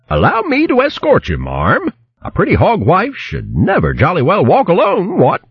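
put-on high, courtly old hare voice; bow and charm her like an old gentleman hare; gallant old hare. Old hare gallantly offers paw.

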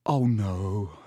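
breathy moan of dread. A narrator's reading. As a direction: moan it, fearing what's coming. Ron dreading the approaching creature.

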